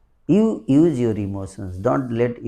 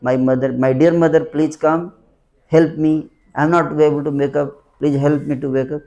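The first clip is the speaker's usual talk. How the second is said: put-on pleading child; 2 semitones higher, much faster than usual. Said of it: "when will child say".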